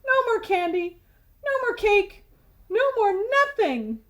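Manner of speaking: loud, high shout; boy shouting at his sweet tooth. Acted. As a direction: lay down the law at full voice. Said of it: "shouted Stuart".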